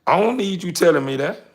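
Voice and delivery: man setting his partner straight; telling her straight. Retold or imitated. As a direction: shut her down, raising the voice. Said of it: "they gonna tell your ass straight like this here".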